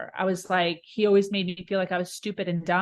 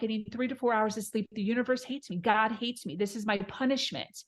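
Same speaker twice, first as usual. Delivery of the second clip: softer, despairing; 5 dB quieter than usual. Retold or imitated. Retold self-pity in the car.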